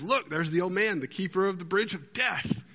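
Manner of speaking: a half-hearted go at Monty Python English; English impression. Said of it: "with his English impression".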